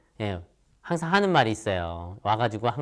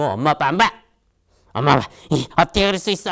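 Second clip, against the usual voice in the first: put-on raised, hurt child snapping at parents; sulky outburst; 4 semitones higher, 6 dB louder, faster than usual. Upset child scolding mom and dad, sulky raised voice. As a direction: throw a higher, louder childish sulk. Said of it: "그때 꿍 해가지고".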